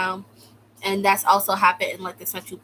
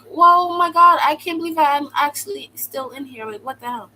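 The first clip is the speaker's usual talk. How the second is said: stunned disbelief; 6 semitones higher, 6 dB louder than usual. Retold or imitated. Waking up still in detention.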